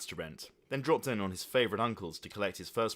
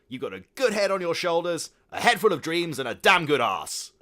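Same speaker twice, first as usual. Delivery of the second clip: creepy uncle; 9 semitones higher, 12 dB louder than usual. Acted.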